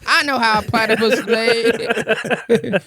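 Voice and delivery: slow, lightly voiced child bragging; a hint of a proud kid. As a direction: drag it out like a smug little kid. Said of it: "Imagine your kids going to school".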